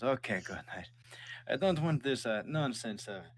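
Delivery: slow, disapproving father; father's voice. Acted. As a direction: grumble about houses in the ground. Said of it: "he says".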